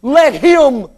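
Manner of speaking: preacher imitating a sarcastic scoffer. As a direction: dare it with mock conviction. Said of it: "listen to this sarcastic attitude".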